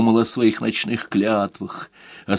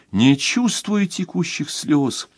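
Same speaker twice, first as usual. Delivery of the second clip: plain reading voice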